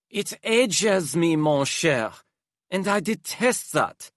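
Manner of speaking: high, theatrical aristocrat; dramatic Hypnos voice. Acted. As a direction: flamboyant and weary, sighing exaggeratedly.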